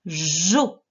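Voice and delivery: JO with a long buzzing J; dictation sound. Shown as a demonstration. Teacher dictating a syllable to a child, stretched-out sounds. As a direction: draw out the syllable JO slowly. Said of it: "quand j'ai fait les sons".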